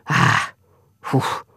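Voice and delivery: low grunt, then a puff; low exasperated huff. A narrator's reading. Exasperated noises amid the quarrel.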